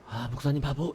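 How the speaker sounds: soft, hushed little jab; quiet mock insult. Pastor recalls a congregant's hushed teasing. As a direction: murmur it like a sleeper's neighbour teasing. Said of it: "조용히".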